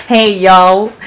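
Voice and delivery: laughing mock Southern greeting; lightly hammed-up Southern hello; pretend Southern accent. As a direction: play a cowboy with a Southern accent. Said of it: "really have his Southern accent".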